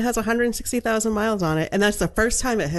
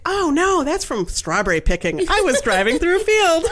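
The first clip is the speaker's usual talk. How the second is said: acted protest; 10 semitones higher than usual. Acted protest to tow driver.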